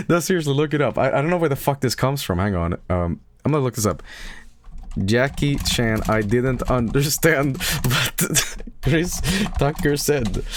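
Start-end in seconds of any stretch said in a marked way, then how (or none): 6.1-10.4 slow, breaking into laughter mid-line; laughing through the quote. Real, not acted. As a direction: read it out while laughing. Rereads quote, cracking up.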